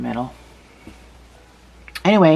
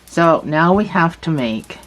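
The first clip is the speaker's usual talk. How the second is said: talking around a marker held in the mouth; muffled, object between the lips; stitch marker in mouth; 3 semitones higher, 4 dB louder than usual. Real, not acted. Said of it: "I'm talking about a stitch marker in my mouth".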